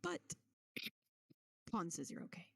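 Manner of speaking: shy, trailing into a whisper. Acted. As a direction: whisper it shyly. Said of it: "very shy smile towards Crew".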